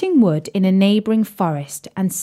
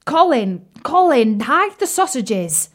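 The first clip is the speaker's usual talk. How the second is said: croaking frog; 5 semitones higher than usual. Acted. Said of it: "croaked Bertie to Colin".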